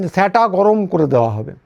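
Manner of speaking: a light imitation of polished standard Bengali pronunciation; standard Bengali accent. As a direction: mimic the minister's careful standard Bengali on TV. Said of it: "কিন্তু উচ্চারণটা এরকম ছিল". (প্রমিত বাংলা উচ্চারণের হালকা নকল)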